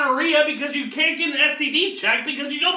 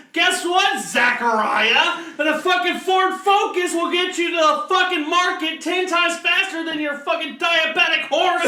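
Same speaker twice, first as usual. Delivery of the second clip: mock angry rant; 4 semitones higher than usual. Ranting at an imagined Amish man.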